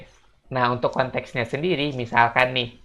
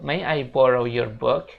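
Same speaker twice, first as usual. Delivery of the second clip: slow model sentence; slower than usual. Shown as a demonstration. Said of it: "kita bisa bilang".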